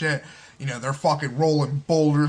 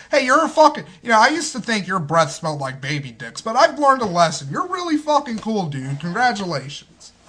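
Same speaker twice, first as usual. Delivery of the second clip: mock tirade; 5 semitones higher, 4 dB louder than usual. Acts absurd insult-then-praise to somebody.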